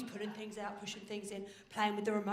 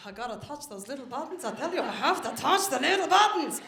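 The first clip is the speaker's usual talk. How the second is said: put-on desperate toddler; 4 dB louder than usual. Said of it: "So she was like".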